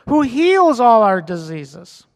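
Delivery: slow, deliberate scripture reading. Shown as a demonstration. Pastor slowing the psalm so the congregation catches it. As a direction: let each word land slowly. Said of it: "I'm gonna read this slow".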